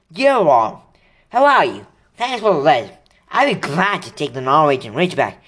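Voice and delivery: a hint of cheerful older brother; reading letter. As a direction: read it as Charlie writing. Letter read in Charlie's voice.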